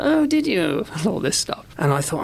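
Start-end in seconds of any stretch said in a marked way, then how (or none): 0.0-0.9 Cleese replying. Retold or imitated. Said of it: "he goes".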